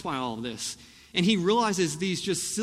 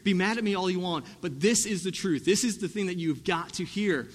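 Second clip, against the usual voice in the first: firm, emphatic declaration; bold; 3 semitones higher than usual. Retold or imitated. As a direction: lay down the truth without apology. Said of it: "he uses such bold language".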